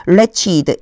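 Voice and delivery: wretched as two syllables, RETCH-id, said clearly; wretched pronunciation. Shown as a demonstration. Teacher showing students how to read wretched, careful demo. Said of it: "wretched라고 읽지 않고 wretched라고 읽어요".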